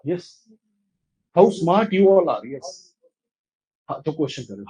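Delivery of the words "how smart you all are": teacher's demonstrated exclamation; exclamatory example. Shown as a demonstration. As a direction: exclaim it, a bit louder. (ઉદ્ગાર સાથે, જરા મોટેથી)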